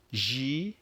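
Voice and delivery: teacher modelling Gyrophare; French pronunciation. Shown as a demonstration. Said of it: "Let's try it again".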